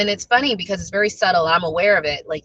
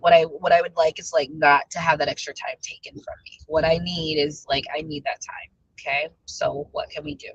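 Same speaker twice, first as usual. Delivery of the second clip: low, softened negotiating tone; calm retold request; 4 semitones lower, 4 dB quieter than usual. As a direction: state the need gently, letting it drop softer. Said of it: "and I calmed down".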